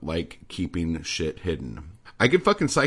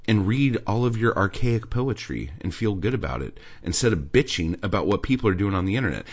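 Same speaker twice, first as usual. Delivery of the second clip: ordinary delivery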